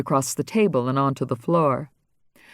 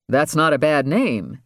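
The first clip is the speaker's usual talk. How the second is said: surprise. Acted. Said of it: "Andy said in surprise".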